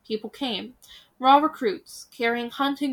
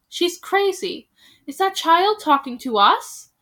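loud mocking disbelief; scornful villager; 7 semitones higher, 6 dB louder than usual. Another villager mocking the girl, loud scorn. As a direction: sneer it at the child. Townsfolk jeering at the children.

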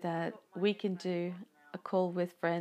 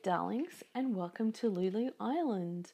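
breathy vintage purr; 4 semitones higher than usual. Acted. Host's sultry podcast greeting.

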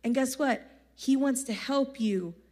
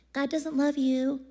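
the enemy taunting; slower than usual. Pretend. The enemy voiced in sermon.

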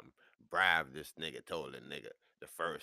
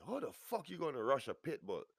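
high, raised disbelief; indignant, pitched-up rhetorical question; incredulous outburst; 10 semitones higher, 4 dB louder than usual. Retold or imitated. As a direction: blurt it out, voice jumping up. Acted disbelief.

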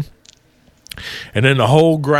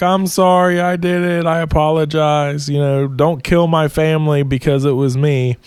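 a higher, lightly voiced boy begging; pleading little boy; 3 semitones higher than usual. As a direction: plead like a scared kid owning up. Little boy confesses to Thor.

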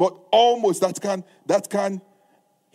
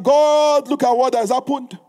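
resolute cry to God; 3 semitones higher, 4 dB louder than usual. Retold or imitated. Preacher modelling right intercession, crying out then bracing. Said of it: "It is that".

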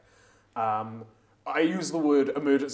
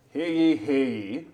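town crier; 3 semitones higher, 5 dB louder than usual. Acted. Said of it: "this voice booms like thunder".

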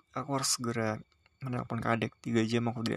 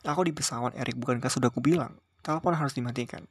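short, curt answer, a touch louder; 4 dB louder than usual. Acted. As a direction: snap back at him, a little raised. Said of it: "Aku menjawab ketus".

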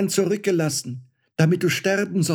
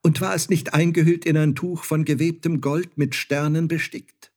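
urgent cry; 7 semitones higher, 4 dB louder than usual. Acted. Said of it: "rief sie".

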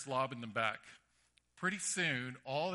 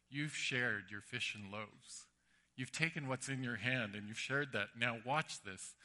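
playful Jesus; 3 semitones lower than usual. Retold or imitated. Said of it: "a big smile on his face".

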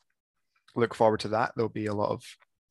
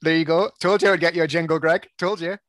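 triumphant; 5 semitones higher, 7 dB louder than usual. Real, not acted. Proud of the new jingle.

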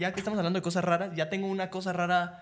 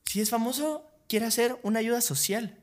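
higher-pitched mock señora, insistent; imitated agitated woman; 5 semitones higher than usual. Agitated señora asking a famous person for help, imitated high. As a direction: push it up high like a worked-up stranger. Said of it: "una señora así súper a-, alterada".

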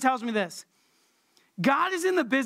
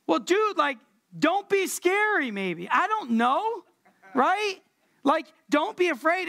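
comic protest; 5 semitones higher than usual. Pretend. Comic reply to angel, high.

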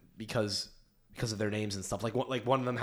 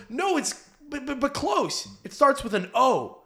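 much higher squeaky imitation of a small girl; little girl voice; 14 semitones higher, 5 dB louder, slower than usual. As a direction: play the giggly little girl dragging out the clue. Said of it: "And the girl goes".

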